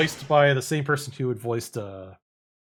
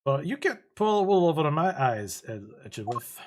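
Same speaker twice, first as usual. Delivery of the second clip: put-on German accent; 3 semitones higher than usual. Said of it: "do a German accent with her".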